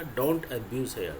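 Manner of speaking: very slow, word by word; slow model sentence; slow dictation. Shown as a demonstration. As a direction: drag each word out for the class. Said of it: "क्या बोलेंगे?".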